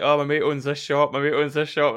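high, loud eager tout voice; imitating an eager tout; mock shop owner. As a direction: play the pushy local guide calling you in. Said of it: "I was like".

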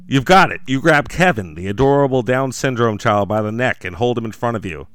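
dramatic horror story read; story narration. A narrator's reading. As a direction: narrate like a campfire horror tale. Narrates Mike Lindell's doom.

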